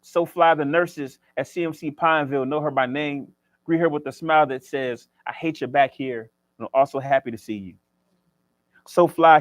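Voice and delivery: rhythmic spoken word delivery, each line punched; spoken word poem. Acted. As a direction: perform it like slam poetry on stage. Recites a poem.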